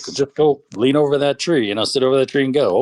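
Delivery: brother voice. Retold or imitated. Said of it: "the brother's like".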